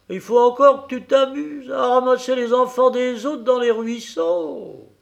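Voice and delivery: high, loud, scornful scolding; scolding tirade. A narrator's reading. Wife berating her husband about the leaky boat, loud scolding. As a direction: berate him for his folly.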